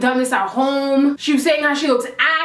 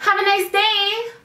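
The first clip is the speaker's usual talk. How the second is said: eye-roll sarcasm; 7 semitones higher, slower than usual. Retold or imitated. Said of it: "Rolling her eyes and shit".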